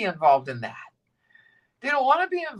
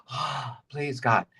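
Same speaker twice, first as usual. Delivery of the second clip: quiet prayer; 7 semitones lower than usual. Shown as a demonstration.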